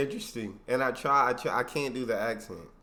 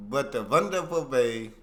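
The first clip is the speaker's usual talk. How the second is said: slow, louder stab at German accent; attempted German accent; 5 dB louder, slower than usual. Shown as a demonstration. Viewer retrying the teacher's phrase, slow German accent. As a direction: try German accent word by word. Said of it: "No, I can't do it".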